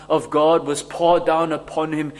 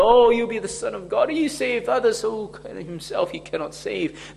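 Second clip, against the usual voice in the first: imitated jeer, pitched up and quicker at first; mocking; 5 semitones higher than usual. Onlookers jeer at Jesus on the cross, mocking. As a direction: lightly scoff in the voice of mockers. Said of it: "mocked him, laughed at him and said".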